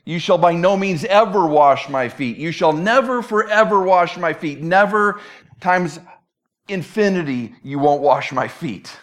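hard stress on "ever" and "never"; emphatic refusal. Acted. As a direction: refuse absolutely, hammering "never" each time. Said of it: "gives us even greater emphasis".

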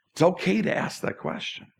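breathy whisper of reassurance; hushed, sincere whisper. Real, not acted. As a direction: lean in and whisper it gently. Pastor reassures about doubting God.

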